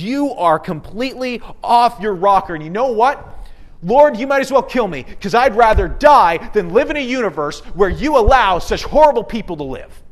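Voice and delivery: loud, high, furious rant at God; angry outburst. Retold or imitated. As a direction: rage at God, ready to die. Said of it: "You can feel the anger that's coming from him".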